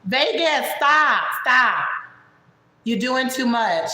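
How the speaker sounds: high, exasperated interruption. Acted. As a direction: cut a friend off in a loud mock protest. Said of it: "that was Jessica breaking in".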